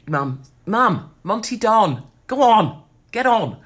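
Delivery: loud, high call to Mum. Pretend. Daughter sending Mum off to watch telly, calling out. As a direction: shoo her off with rising urgency. Shooing her mother away from listening.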